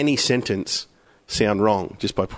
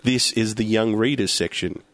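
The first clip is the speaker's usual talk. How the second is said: slowish deadpan, sly "ladies"; cheeky wink at the end; suggestive ladies; 3 semitones lower than usual. Shown as a demonstration. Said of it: "you could say anything".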